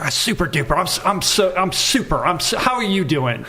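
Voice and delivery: high, overeager fake-cheerful greeting; mock super duper guy. Imitating the fake-happy handshake guy, high and eager. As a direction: ham up the relentlessly upbeat guy. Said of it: "my wife calls the super dupers".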